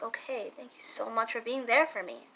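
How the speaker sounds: soft, relieved thanks, acted out; calmed down. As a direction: say it softly, as if settled after being upset. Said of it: "more calm".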